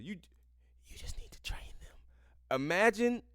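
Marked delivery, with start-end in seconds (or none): 0.0-2.0 breathy unvoiced mock whisper; scoffing at the article, whispered. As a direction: whisper it like a sneaky secret, mocking. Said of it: "leans forward and whispers".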